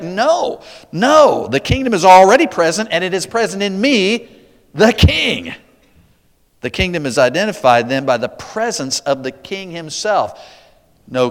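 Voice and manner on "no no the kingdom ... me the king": raised, emphatic voice of Jesus answering; voicing Jesus. Preacher voicing Jesus answering the Pharisees, firm and raised. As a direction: speak as Jesus correcting them, higher and louder.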